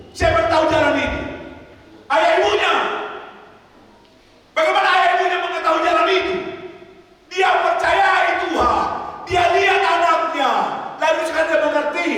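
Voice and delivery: high, loud preacher's cry; fiery sermon climax; full-force preaching. Acted. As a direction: preach it out to the back row.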